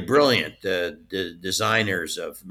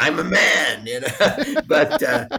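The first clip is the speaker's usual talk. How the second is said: giggling through "I'm a man", pitched up; laughing; 9 semitones higher, 6 dB louder, slower than usual. Real, not acted. Joking to the host about Tweety, laughing. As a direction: laugh at your own joke as you say it.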